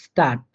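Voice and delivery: স্টার্ট with the final dt said as Bengali ট; teacher models স্টার্ট with a hard t ending; German pronunciation. Shown as a demonstration. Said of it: "ট এর মতো করে".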